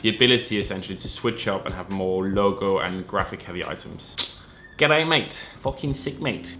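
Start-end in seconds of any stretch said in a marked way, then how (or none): 4.8-6.6 a hammed-up Australian accent, pitched up on G'day; a bad mock Aussie accent. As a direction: worst Australian accent on YouTube, on purpose. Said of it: "the worst Australian accent on all of YouTube".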